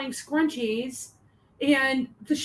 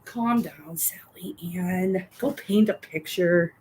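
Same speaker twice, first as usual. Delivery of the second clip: mock soothing; 5 semitones lower, slower than usual.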